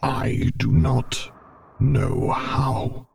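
slow, high-pitched, strained admission in a character voice; Vader. A narrator's reading. Vader admitting helplessness to Luke, slow high character voice. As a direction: drag each word out, pitched well up. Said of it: "Vader admitted in a shivering whisper".

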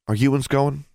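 high, lightly voiced country girl question; country girl asking. A narrator's reading. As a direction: ask it with a backwoods lilt. Forbearance asks, higher.

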